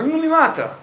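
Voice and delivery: grito de súplica, bem mais agudo; Yaakov suplicando. Retold or imitated. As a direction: implorar pela vida, de leve. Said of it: "Yaakov falou". (Yaakov implora ao sobrinho, agudo e suplicante)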